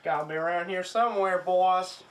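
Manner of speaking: loud, fast call. Acted. King calling to the boys while searching, loud. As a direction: shout it across the cellar.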